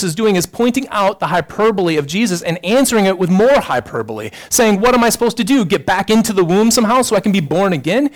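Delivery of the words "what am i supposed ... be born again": higher, louder mock-sarcastic question; facetious. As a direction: toss it back with sarcasm. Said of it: "He's being facetious".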